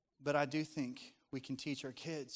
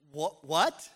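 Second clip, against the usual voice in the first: surprised parent; 9 dB louder than usual. Retold or imitated. Parents shocked at crying son.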